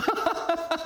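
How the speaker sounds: high, airy giggle all to himself; shown giggle. Shown as a demonstration. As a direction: laugh alone like a goofy seminar guest. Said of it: "막 이렇게 웃어요".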